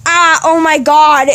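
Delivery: slow, drawn-out mock groan of pain; retold pain. Kid reliving a hurt leg while stretching, mock pained cry. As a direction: act out a sudden leg twinge. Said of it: "and then it hurt".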